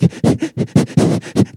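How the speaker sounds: mild, breathy embarrassed giggle; a shy little laugh, lightly imitated; sheepish giggle. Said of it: "she'd get sheepish".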